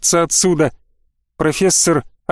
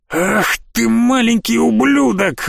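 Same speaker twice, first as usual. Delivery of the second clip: slow, higher, enraged bandit yelling; furious yell; 6 semitones higher, slower than usual. A narrator's reading. Bandit screams into the mic at Jer, furious. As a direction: spit the insult out in a rage. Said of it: "рассвирепев, закричал в микрофон".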